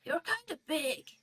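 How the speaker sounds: lightly voiced tiny creature; tiny frail voice. A narrator's reading. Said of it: "a very tiny, kind of frail voice say".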